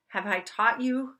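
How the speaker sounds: lightly acted worried questioning, one after another; mild panic. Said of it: "like, almost panicking".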